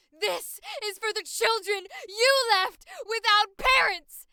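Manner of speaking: full-force vengeful scream; high, very loud, hysterical rage on the edge of crying; desperate raging yell. Acted. Avenger yelling at the one who left children orphaned, hysterical rage. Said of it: "I was about to yell that".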